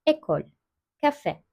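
"Ekol" and "kafe" with the E said closed; short closed é in "Ekol" and "kafe". Shown as a demonstration. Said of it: "Kapalı E okuduk". ("Ekol" ve "kafe" kapalı E ile okunur)

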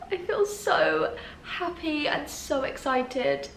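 slow, soft tearful joy; telling viewers she cries from happiness, tearful; happy crying. Real, not acted. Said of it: "I'm crying because I'm happy".

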